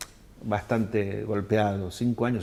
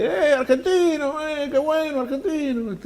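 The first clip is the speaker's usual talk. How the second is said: imitating the cheering English; 3 dB louder than usual. English people hailing the Argentine traveller, high excited cheer. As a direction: sing out the greeting like an excited crowd. English greeting him in Londres.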